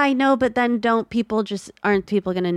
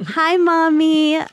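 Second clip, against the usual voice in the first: cute little voice; 8 semitones higher, 4 dB louder, much slower than usual. Acted. Reading fan letter, cute voice.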